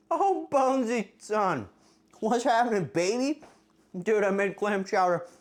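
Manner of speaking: high, loud pet talk. Real, not acted. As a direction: greet the dog in a sing-song voice. Greeting pet dog.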